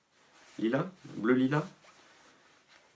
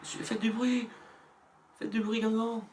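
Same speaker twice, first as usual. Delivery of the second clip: hype announcer; 13 semitones higher, 3 dB quieter, slower than usual. Acted. Stadium announcer hype call.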